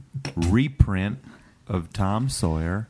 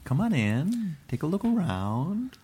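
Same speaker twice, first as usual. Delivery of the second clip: shopkeeper voice; 3 semitones higher, 5 dB quieter, slower than usual. Acted. Shopkeeper greets customers.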